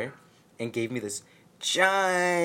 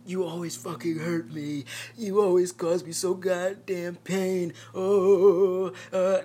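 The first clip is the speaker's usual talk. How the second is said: mock whiny yell; 7 semitones higher than usual. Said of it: "he started yelling".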